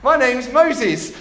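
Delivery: high, loud, slow parrot squawk. Acted. Parrot introducing itself to the burglar, high loud squawk. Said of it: "squawked the bird".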